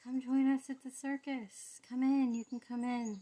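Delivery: loud, high carnival barker; circus barker. Acted.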